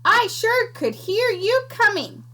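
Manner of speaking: high, slow crackling creature voice; crackly creature. Acted. Small sandwich creature greeting the piglet, high and crackly. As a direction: crackle it out with relish. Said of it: "she crackled".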